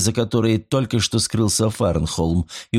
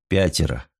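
dejected; 4 semitones lower than usual. Acted. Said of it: "удручённо покачал головой".

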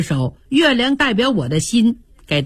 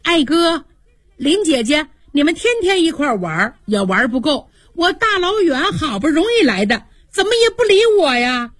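put-on higher bright girlish voice, pitch rising to the end; a playful girl's teasing complaint; cheerful young girl; 5 semitones higher than usual. Xiangyun, laughing, complains the cousins ignore her, higher girlish voice. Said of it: "笑着说".

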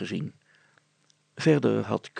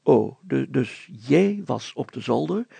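raised, loud, slow questioning voice; a mayor who can't quite believe her; doubtful mayor; 5 semitones higher, 8 dB louder than usual. Acted. Mayor questioning the girl, in disbelief.

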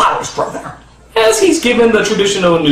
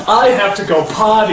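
lightly voiced parent echoing a child's line; parent taking dictation. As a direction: repeat it back as if writing it down. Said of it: "let your five-year-old write the screenplay".

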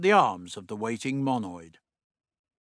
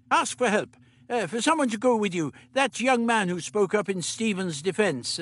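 put-on higher, brisk old doctor; 8 semitones higher than usual. The Doctor instructing Meliam, brisk fussy voice.

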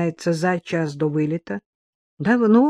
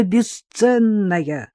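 drawn-out endearment; 3 semitones higher, much slower than usual. Acted. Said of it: "выкрикнул Жора".

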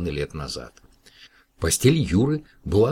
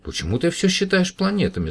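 high, louder amused question; laughing; 13 semitones higher, 5 dB louder than usual. A narrator's reading. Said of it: "засмеялась Маша".

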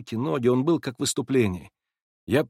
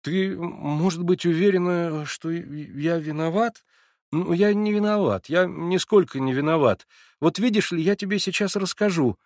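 lightly voiced eager young man; 8 semitones higher than usual. A narrator's reading. Alyosha greeting the narrator at the door, lightly flustered. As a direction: bluster a little, unsure of welcome.

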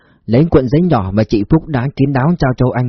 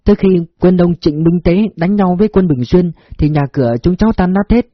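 put-on higher, deferential young woman; polite servant telling her story; humble woman voice; 4 semitones higher than usual. Phúc tells her past.

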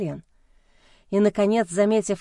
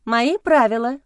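stern; 3 semitones higher, 5 dB louder than usual. A narrator's reading. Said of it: "напомнила я строго".

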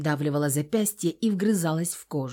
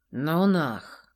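dismissive reply; 2 semitones lower than usual. A narrator's reading. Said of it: "отозвался тот".

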